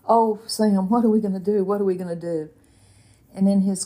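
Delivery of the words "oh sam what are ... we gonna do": panicked plea. Retold or imitated. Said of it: "started wringing my hands and saying".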